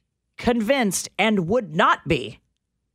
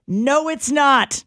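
flat denial; 5 semitones higher, 3 dB louder, much slower than usual. Retold or imitated. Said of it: "The woman says to her".

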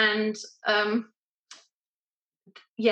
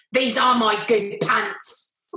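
indignant retort; 2 semitones higher, 5 dB louder, much slower than usual. Retold or imitated. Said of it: "I turned around to him and I said".

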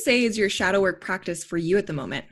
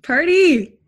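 excited; 8 semitones higher, 6 dB louder than usual. Pretend. Mock party cheer.

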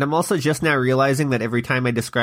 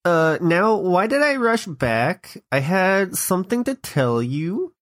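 put-on slow, drawn-out Valley Girl voice; 3 semitones higher, slower than usual. Shown as a demonstration. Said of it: "it's Valley Girl voice".

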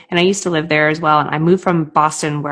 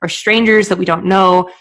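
slow, emphatic wondering question; retold grateful bafflement, drawn out; amazed disbelief; 4 dB louder, slower than usual. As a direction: marvel at it, stretching the words out. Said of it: "just being like".

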